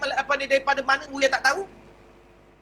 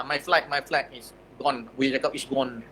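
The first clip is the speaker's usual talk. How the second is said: low, soft, slow lament; helpless lament; 8 semitones lower, 7 dB quieter than usual. Retold or imitated. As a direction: sound lost and stranded. (keluhan perlahan yang putus asa)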